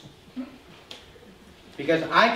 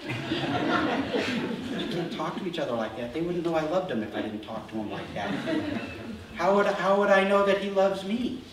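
incredulous laughing reply; 4 dB quieter than usual. Retold or imitated. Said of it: "incredulous everybody at the table".

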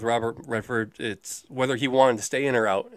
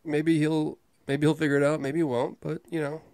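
higher, whiny noncommittal mumbling impression; put-on sullen whine, pitched up; whiny Casey Affleck; 4 semitones higher than usual. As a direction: imitate a whiny, sullen actor trailing off unsure. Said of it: "how does he make his voice sound like that?".

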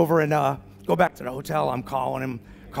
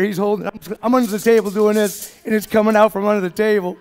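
ordinary delivery

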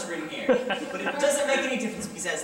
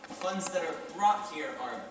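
patronizing; 5 semitones lower, 5 dB quieter than usual. Acted. Clerk explains patronizingly.

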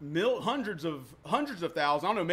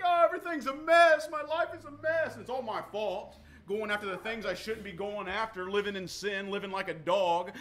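despairing self-talk. Retold or imitated. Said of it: "I would be like".

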